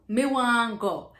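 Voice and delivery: Me want go in Jamaican patois. Shown as a demonstration. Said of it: "little kid".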